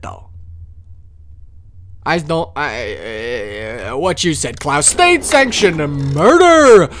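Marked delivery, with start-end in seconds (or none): 4.9-6.9 loud taunting in a put-on British accent. Inspector gloats at the doppelganger in a loud put-on British accent. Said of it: "did you hear my accent?".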